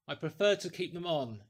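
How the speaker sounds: firm, every word pressed; with emphasis. A narrator's reading. Stranger refusing the landlady's offer, said with emphasis. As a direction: lay it down firmly, no argument. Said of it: "he said with emphasis".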